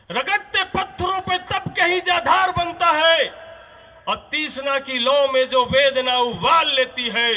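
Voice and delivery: rising, fiery poem recitation, peaking in a shout; poem recital. Acted. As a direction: recite the verse like a battle cry, repeating ललकार at the end. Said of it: "एक line बोल के हम अपनी बात को ख़त्म करेंगे". (जोशीली कविता पाठ)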